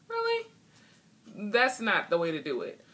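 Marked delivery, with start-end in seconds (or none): 0.1-0.5 sharp disbelieving rise; leaping incredulous question; incredulous really. Real, not acted. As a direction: scoff at the idea in disbelief. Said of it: "incredulous reaction".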